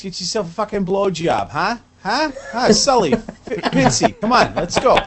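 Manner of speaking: a lightly put-on Boston accent, grumbling; a Revere Beach guy with a light Boston accent, griping about freestyle; mock Boston accent. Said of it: "why do they talk like".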